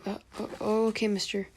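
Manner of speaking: hesitant little boy, lightly put on; mild put-on kid voice; little kid Naruto. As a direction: stumble into agreeing like a small child. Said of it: "trying to make a little kid voice".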